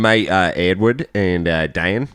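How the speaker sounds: put-on Australian accent, telling a yarn. Shown as a demonstration. Friend demos his accent with a pub story, put-on Australian. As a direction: play an Aussie mate in a Melbourne accent. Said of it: "that is full Australian".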